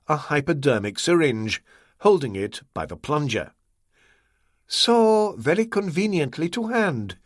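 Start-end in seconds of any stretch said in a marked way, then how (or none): 4.7-7.2 gentle. A narrator's reading. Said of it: "he said gently".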